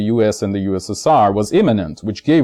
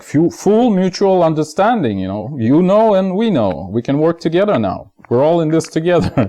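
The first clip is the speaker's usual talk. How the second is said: mock diplomat voice; 5 semitones higher than usual. Voicing the superpowers making friends.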